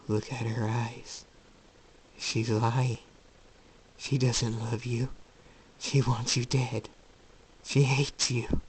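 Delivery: slow, insinuating whisperer's menace; sinister inner voice. Acted. Voice in Jacob's head against his mother, slowly sinister. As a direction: draw out each poisonous claim.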